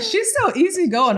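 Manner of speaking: imitating him. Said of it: "He's like".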